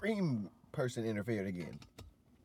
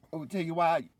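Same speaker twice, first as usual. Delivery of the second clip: higher, dramatic delivery of a wrestler's threat; mock dramatic villain line; 8 semitones higher, 5 dB louder, faster than usual. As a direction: ham it up like a wrestling heel promo. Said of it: "She was like".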